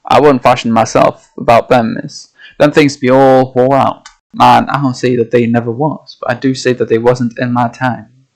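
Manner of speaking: lightly voiced old Yorkshire sailor, gruff and dismissive; a hint of a Yorkshire fisherman brushing off tall tales; old Yorkshire accent. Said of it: "having to find an accent here".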